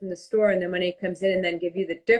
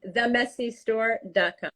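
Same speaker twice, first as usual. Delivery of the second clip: slow, measured web address; slower. Shown as a demonstration. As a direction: repeat the site name slowly and distinctly. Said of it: "Say it slower".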